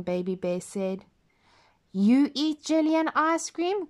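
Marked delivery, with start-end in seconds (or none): 1.9-3.9 higher, astonished question; surprised gasp. Acted. Goldilocks hears bears eat treats, astonished higher question. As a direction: sound amazed at bears eating sweets. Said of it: "gasped Goldilocks in surprise".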